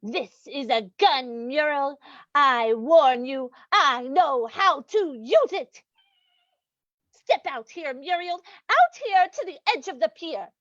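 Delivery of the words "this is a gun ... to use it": slow, deliberate threat; menacing warning. Acted. Captor threatening Muriel with a gun, slow and menacing. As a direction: warn them word by word, very slowly.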